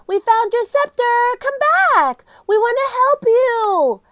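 high, loud call across the tomb. Acted. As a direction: call out to her, pleading. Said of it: "Annie called".

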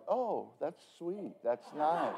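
soft, slow, sugary "that's sweet"; gently parodied nice-lady reply; mock sincere. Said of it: "some are try to be sincere".

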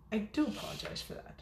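soft unvoiced apology; whispered aside. Real, not acted.

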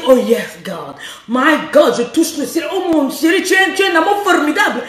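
playful breathy moaning, partly in English; mock sultry moan. Shown as a demonstration. Coach showing the right pleasure cries, mock sultry. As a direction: act out refined ecstasy, teasing. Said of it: "Une titi boss dit".

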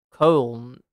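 "Colne" as a struggling attempt at German Köln; attempted German pronunciation. Shown as a demonstration. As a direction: try "Colne" as one syllable with a long vowel. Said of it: "good faith attempt to try and pronounce that".

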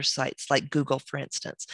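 hoarse, voice giving out; tired, fading hoarse voice; losing voice. Real, not acted. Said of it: "I'm losing my voice here".

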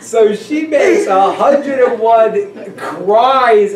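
deliberate slow correction; slow repeat. Shown as a demonstration. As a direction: spell it out slowly after the slip. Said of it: "I'll say this again".

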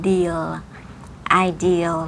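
"deal" and "ideal" ending on a light L; "ideal" with the L sounded; final L. Shown as a demonstration. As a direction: lift the tongue gently for L in "deal". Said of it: "อันนี้มี L".

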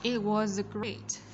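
slow "It was great" with a buzzing z ending "was"; Z ending sound. Shown as a demonstration. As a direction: stretch "was" into a clear voiced z. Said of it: "Z ending sound". (đọc chậm, rõ âm z cuối "was")

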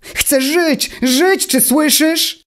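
very high, slow, straining yell; tiny voice crying out in panic; frantic shout. A narrator's reading. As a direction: scream the plea to be heard. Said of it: "krzyknął Automateusz".

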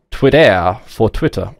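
slow, put-on French accent on the app name. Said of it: "I'm assuming you have to say it in, like, a French accent".

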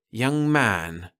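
thin, pinched master salesman; thin and disapproving. A narrator's reading. Salesman warning Perry in a thin voice. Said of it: "the master said thinly".

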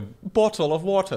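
lightly imitated, forced British accent. Friend teasing the Brit's demo, lightly imitated forced British accent. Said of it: "sounded like you were forcing".

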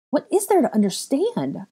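high anguished cry. A narrator's reading. Girl crying out at the boy, high anguish. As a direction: break on the question. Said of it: "I cried".

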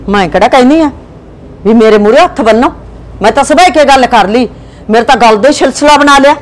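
loud, defensive complaint; angry shout. Acted. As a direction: shout back that she never asked for it. Wife protests husband's accusation.

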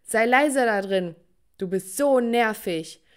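loud, slow shout through a door; family yelling. Retold or imitated. Sibling shouts at singing girl, slow and loud. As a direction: bark through the door to shut her up. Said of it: "an die Tür hämmerte".

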